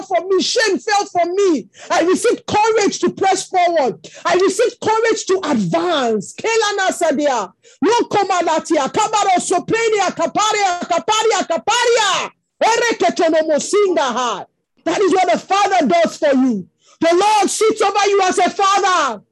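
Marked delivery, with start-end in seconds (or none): 6.3-14.5 rhythmic flowing prayer in tongues; speaking in tongues. Acted. Preacher breaks into tongues before the congregation. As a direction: let the syllables roll out as fervent prayer. Prays in tongues mid-sermon.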